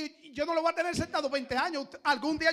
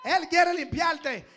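raised model phrase; much slower than usual. Shown as a demonstration. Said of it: "míralo a los ojos".

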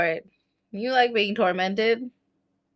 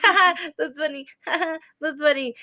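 higher, tearful fake chuckle; mock amusement; 5 semitones higher, faster than usual. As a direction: force a little laugh through tears. Retelling forced amusement while watching.

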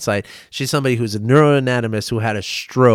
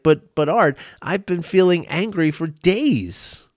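voiced objection, pitched up and drawn out; imitating protest; 5 semitones higher than usual. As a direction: object like a disbelieving listener. Voicing people's disbelieving objection.

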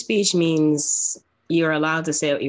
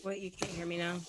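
faint, far-off mic; speaking into a broken mic; quiet voice loud hiss; 2 semitones higher, 13 dB quieter than usual. Real, not acted. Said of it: "You're really quiet".

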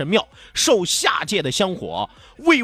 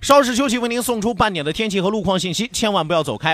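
am radio. Acted. Radio station break.

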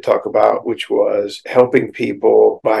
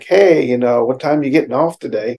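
friendly, upbeat casual question; kind and happy; 2 semitones higher, 3 dB louder than usual. Acted. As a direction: ask it happily, looking forward to seeing them. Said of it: "laughing and kind and happy".

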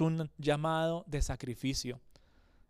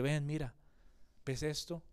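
gentle invitation; 2 semitones lower than usual. Acted. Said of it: "te invita y te dice".

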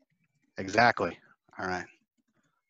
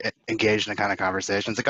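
normal talking voice

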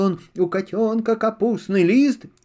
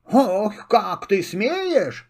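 indignant squirrel; 2 semitones higher, much slower than usual. Acted. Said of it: "закричала белка".

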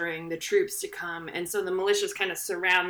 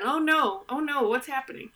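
higher, hammed-up panic; mock panic; 6 semitones higher than usual. Colonists panicking as tension builds, in hammed-up mock fear. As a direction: play the panicking side, pitched up.

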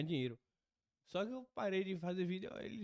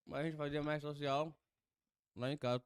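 mouth full. Real, not acted. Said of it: "Tô falando de boca cheia mesmo".

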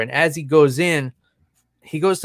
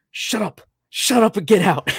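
angry order; 7 semitones higher than usual. Retold or imitated. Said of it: "just lost his shit".

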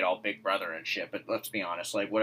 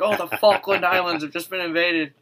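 news bulletin voice; 8 semitones higher, 7 dB louder than usual. Retold or imitated. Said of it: "It's like".

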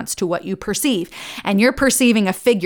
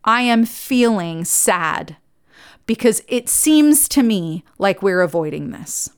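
slow soft feeling statement; slower than usual. Shown as a demonstration. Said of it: "right example".

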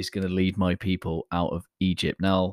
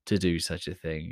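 solemn biblical quote; 3 dB louder than usual. Retold or imitated. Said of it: "the actual words".

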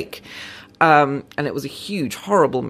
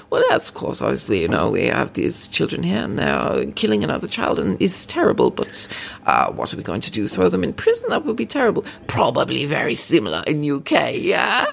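mock Norwegian police chief, arch and patronizing; bad Norwegian accent. Norwegian police chief smugly reassuring British viewers, in a bad Norwegian accent. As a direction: put on a so-so Norwegian accent, talking down a little. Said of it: "I'm gonna do a bad accent".

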